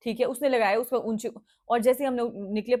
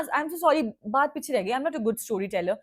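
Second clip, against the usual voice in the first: mock apology; 3 semitones higher, slower than usual. Mocking the driver's excuse.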